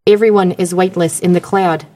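Australian-accented phone-assistant imitation; measured Australian assistant voice; Australian Siri. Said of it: "an Australian guy, and he goes".

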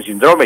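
síndrome as sin-DRO-me; stress on middle syllable. Shown as a demonstration. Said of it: "ya repito".

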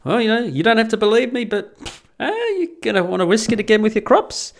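lightly voiced sly con man; grifter's veiled threat. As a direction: grifter warning farmers about their crops. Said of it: "And like".

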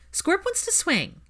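put-on high and drawn-out child's plea; wheedling little boy. Albus bargaining for his friend, high slow child voice. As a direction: coax them sweetly, like a small boy.

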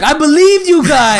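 high, slow wounded wail; mock hurt, drawn out; feigned upset. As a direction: imitate a betrayed brother, overacted. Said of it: "acted like he was upset".

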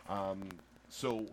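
carefully enunciated, polite plea; lightly put-on proper English, measured; white voice. Host pleading with a judge over a ticket, white voice. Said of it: "do your white voice".

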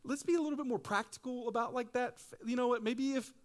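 high, overly reasonable voice; mock a cautious friend talking you down; doubting friend. Friends discouraging your faith, mock sensible voice. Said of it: "some of your friends are like".

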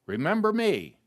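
rising high plea, Remember me stretched up; pleading plea. Retold or imitated. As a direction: call out Remember me like a desperate thief. Thief on the cross pleads.

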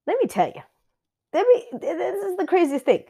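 breathy confiding whisper. Real, not acted. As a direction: lean in and whisper it like a secret. Confiding aside to listeners.

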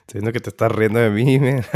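rough, sick-sounding voice; a throat raw from a cold; hoarse voice. Real, not acted. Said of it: "traigo una voz de ultratumba ahorita".

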